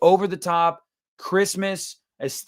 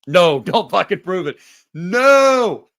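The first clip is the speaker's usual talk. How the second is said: laughing; 3 semitones higher, 8 dB louder, slower than usual. Real, not acted. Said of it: "I should not have said that".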